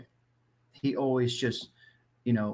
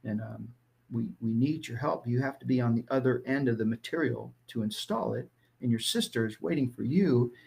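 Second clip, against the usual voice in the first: lowered tone; 3 semitones lower than usual. Retold or imitated. Father calmly reaching his sensitive son, lightly softened. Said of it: "lower my tone".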